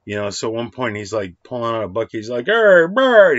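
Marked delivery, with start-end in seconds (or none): 2.5-3.4 loud, higher call across the clubhouse; booming call. Retold or imitated. Babe Ruth calling to the kid, booming shout. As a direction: shout the name out with a big ring. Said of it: "He's got this great deep ring".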